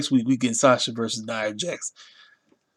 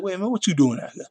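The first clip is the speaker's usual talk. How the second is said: higher and faster, mock disbelief; incredulous high squeal; 7 semitones higher, faster than usual. Fan reacting to Sami Zayn's entrance, incredulous and high. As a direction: squeal it out in surprise.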